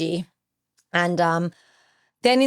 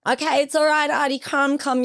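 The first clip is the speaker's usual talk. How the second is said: retold reassurance; 8 semitones higher than usual. Retold comforting of a grieving friend.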